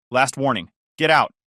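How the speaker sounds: sharp loud order; stern final warning. Acted. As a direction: draw the line, firm and loud.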